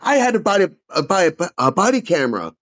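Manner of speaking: outraged that she lied about him; real fury. Real, not acted. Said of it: "I was furious".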